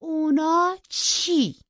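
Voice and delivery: slow, high, loud demand; offended girl loudly challenging; loud challenge. A narrator's reading. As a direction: throw the question back at him, offended. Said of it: "با صدای بلند گفت".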